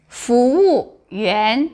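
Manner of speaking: 服务员 said slowly, each tone clear; slow model of 服务员 for students; practicing tones. Shown as a demonstration. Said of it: "Now listen".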